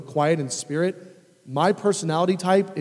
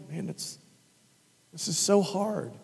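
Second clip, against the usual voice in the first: soft sympathy; 9 dB quieter than usual. Pretend. Voicing comfort to hurting person.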